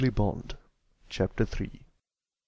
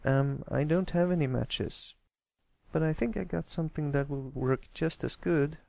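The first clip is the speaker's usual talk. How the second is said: a bit higher, timid little colt; Pipsqueak, high shy voice; 6 semitones higher than usual. Acted. Pipsqueak shyly offering another way to make fire, high timid colt voice.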